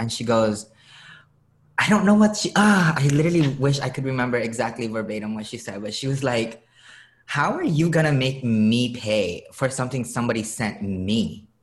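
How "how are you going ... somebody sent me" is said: put-on cheeky, sassy voice. Retelling what an irritated customer at the post office said: imitating a sassy customer. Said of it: "just her sass made me smile".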